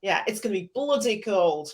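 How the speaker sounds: bad northern English accent. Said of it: "I'm doing a really bad northern accent".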